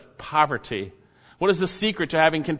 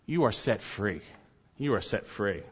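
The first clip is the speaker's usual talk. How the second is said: hushed repetition; 8 semitones lower, 7 dB quieter than usual. Acted. Quiet emphatic repetition.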